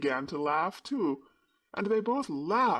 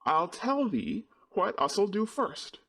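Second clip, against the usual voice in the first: Yorkshire; 6 semitones higher than usual. A narrator's reading. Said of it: "tried to twist her tongue into speaking Yorkshire".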